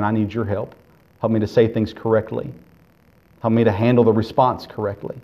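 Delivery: gentle earnest prayer for help. Acted. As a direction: pray it under the breath, pleading. Voices a believer's prayer.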